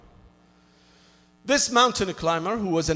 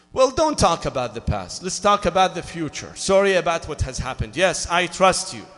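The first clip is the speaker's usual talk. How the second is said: pleading; 7 dB louder than usual. Acted. Climber pleading with God.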